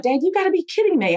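high, pitch-cracking upset plea to dad; upset, crying. Retold or imitated. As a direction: retell the tearful disbelief on the phone. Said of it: "I mean, I'm crying".

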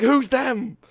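high, loud urgent retort; reenacted hype exchange. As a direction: shout back at a hyped teammate. Shouted back-and-forth hype routine.

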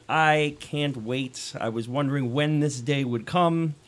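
slow mock eagerness; sarcastic. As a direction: pretend excitement, deadpan. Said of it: "my sarcasm there in the intro".

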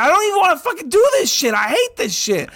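high, loud frustrated shouting; retold furious yell. Retelling his rant to his wife, high frustrated yelling. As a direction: vent it like you've had enough. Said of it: "she heard me yelling".

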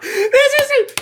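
very high, loud and slow; teasing imitation of a friend's catchphrase; mocking catchphrase. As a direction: stretch it out in a squeaky mock voice. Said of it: "you used to always say".

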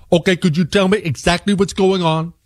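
lightly voiced phone agent. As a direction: mimic the confused support rep. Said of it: "And then".

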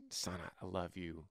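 mother gently offering help to her grown son; loving mom. Pretend. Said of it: "let's pretend it's your son".

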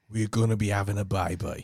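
low-pitched Brummie impression; Brummie accent. Shown as a demonstration. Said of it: "Someone says, "Say, say we're".

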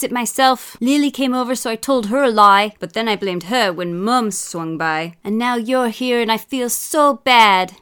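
high, loud, tumbling confession; blurted confession. A narrator's reading. Boy confesses everything to Dad, blurting loudly. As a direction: blurt it all out in a rush of guilt. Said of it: "blurted Eric".

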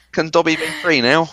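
high squeaky house-elf voice; high, meek elf pleading; Dobby voice. Pretend. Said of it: "doing my Harry Potter again".

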